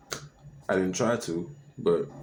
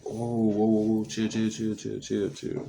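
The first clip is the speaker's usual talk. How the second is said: higher and louder panicked whoas; alarmed; 4 semitones higher, 4 dB louder than usual. Retold or imitated. Jumping back from the knife, alarmed and pleading.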